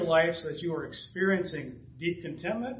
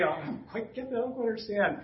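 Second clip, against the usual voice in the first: higher, softer, mock-timid admission; afraid to ask; 4 semitones higher, 3 dB quieter than usual. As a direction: admit it hesitantly, pitched up. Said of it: "you ever been afraid?".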